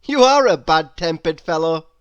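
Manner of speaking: a mild, polite double take; cheerful Mister Happy. Acted. Happy teases Grumpy.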